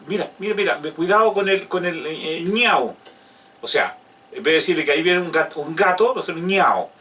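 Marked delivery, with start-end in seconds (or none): 0.1-2.9 put-on grandparent baby talk. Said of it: "no le decimos".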